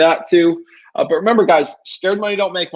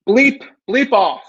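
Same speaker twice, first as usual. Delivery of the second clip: mock curse-out; 7 semitones higher, 3 dB louder, much slower than usual. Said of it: "Someone says".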